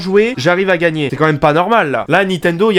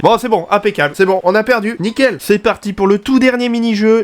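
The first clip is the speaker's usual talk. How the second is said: parler plus fort; 5 semitones higher than usual. Real, not acted. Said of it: "je peux parler plus fort".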